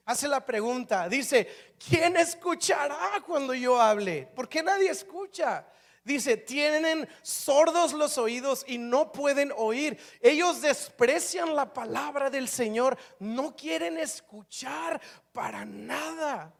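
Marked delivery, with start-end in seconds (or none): 1.9-5.7 raised, impassioned questioning; pressing, higher-pitched appeal; very intense. Acted. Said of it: "muy intenso esto". 6.4-16.5 slow, impassioned denunciation; very intense. Acted. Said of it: "muy intenso esto".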